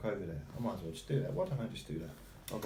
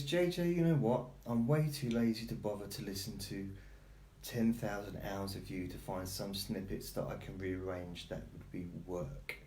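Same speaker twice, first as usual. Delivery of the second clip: voicing the dog; 3 semitones lower than usual. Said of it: "Sebby says".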